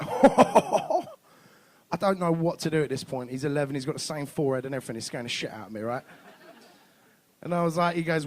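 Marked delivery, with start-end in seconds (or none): 0.0-3.3 put-on very slow, drawn-out kid voice; slow, mocking calm; deadpan son. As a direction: drag it out, unbothered. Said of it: "he's like".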